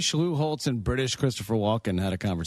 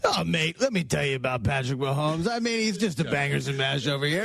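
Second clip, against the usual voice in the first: lightly put-on British sportscaster accent; a hint of a British football commentator; mock British accent. Co-host on air doing Collinsworth in a mock British accent. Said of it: "Here we go".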